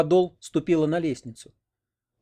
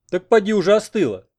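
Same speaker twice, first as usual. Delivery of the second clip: perked-up, loud and high; suddenly wide awake and keen; eager; 7 semitones higher, 7 dB louder than usual. Acted. Grandfather suddenly keen on the bathhouse, eager and loud.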